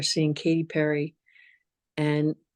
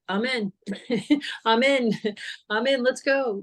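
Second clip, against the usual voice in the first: eager yes; 6 semitones higher than usual. Retold or imitated. Eagerly accepting any invitation.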